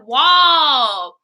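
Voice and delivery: real exasperated near-cry on "wall."; outraged wail. Real, not acted. Outrage at embarrassing posts.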